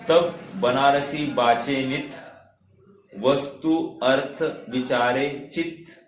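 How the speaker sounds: slow, measured verse reading; slow recitation. Shown as a demonstration. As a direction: recite the verse slowly, phrase by phrase. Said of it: "मैं धीरे धीरे बोल रहा हूं". (धीमा पद-पाठ)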